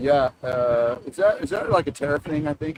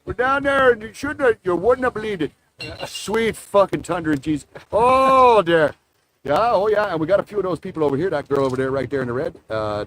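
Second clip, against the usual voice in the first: put-on Newfoundland accent. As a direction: lay on a thick Maritime Newfoundland twang. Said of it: "It's a unique Canadian accent".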